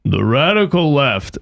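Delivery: slow, lightly voiced Prager impression; a hint of Prager, drawn out slowly. Asked for his Prager, he tries a slow Prager voice. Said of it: "What's your Prager?".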